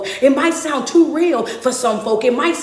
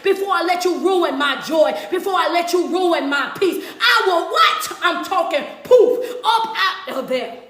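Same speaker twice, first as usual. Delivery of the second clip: laughing mock threat; 4 semitones higher than usual.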